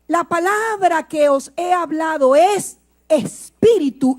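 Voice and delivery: slow, solemn words of the Lord; voicing the Lord. Preacher quoting Jesus to the church, slow and solemn. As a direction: speak it as Christ's own words. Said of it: "nuestro Señor dijo".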